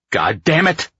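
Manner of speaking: loud, high burst of exasperation; frustrated curse. A narrator's reading.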